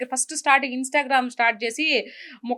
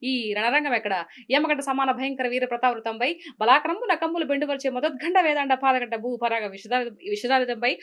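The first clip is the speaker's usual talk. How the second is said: lightly voiced mythological film villain; a hint of stagy grandeur; SV Ranga Rao. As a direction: declaim ornate Telugu lines in measured theatrical phrases. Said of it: "SV రంగారావు గారు చెప్తారు".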